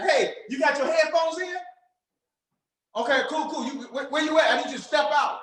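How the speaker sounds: eager "are you by yourself", rising; hyped-up caller. Shown as a demonstration. Coach showing students an excited phone opener. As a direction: sound like you've got big news. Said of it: "getting them pumped up".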